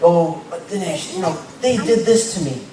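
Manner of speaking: hammed-up aggrieved protest; mock complaint. Listener objecting to preacher Dinesh, mock aggrieved complaint. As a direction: play the wounded objector, voice rising at the end. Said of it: "You're saying".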